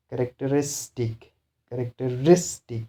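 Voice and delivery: characteristic with RIS stressed; stress before suffix. Shown as a demonstration. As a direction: lean on RIS, just before the final -tic. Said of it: "before the suffix".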